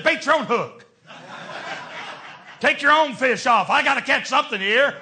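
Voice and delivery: half-laughing gripe; laughing exasperation at the fishing buddy; laughing mock complaint. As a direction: grumble it through a laugh. Preacher quotes himself to friend.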